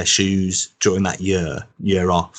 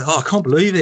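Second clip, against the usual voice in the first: high, louder Birmingham moan; Brummie accent; 8 semitones higher, 4 dB louder than usual. Retold or imitated. The moaning fan repeating his complaint, in Brummie accent. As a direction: whine it like a disappointed Brummie fan. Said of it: "in this really strong accent".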